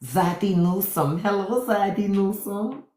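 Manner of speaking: a lightly put-on sultry greeting; mock-seductive Melania voice; flirty Melania. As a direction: purr the hello at him. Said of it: "She said".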